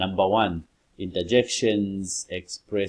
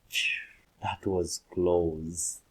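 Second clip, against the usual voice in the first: relieved phew; slower than usual. Shown as a demonstration. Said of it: "sounds of fillers".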